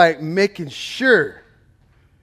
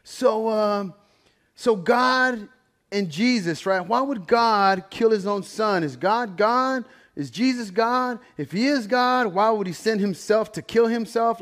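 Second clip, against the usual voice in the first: higher, slow, mock-earnest questioning; lightly voiced challenging girl; imitating the girl; 5 semitones higher, slower than usual. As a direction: play the skeptical girl testing him. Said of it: "the girl goes up to him and says".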